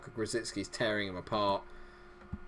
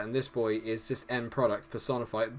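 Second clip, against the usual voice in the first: ordinary talk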